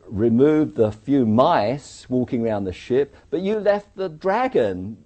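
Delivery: slow, loud protest climbing high; heated, drawn-out argument, high and loud; impassioned warning. Retold or imitated. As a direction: spell out the danger, rising in pitch and force. Acted argument, warning of danger.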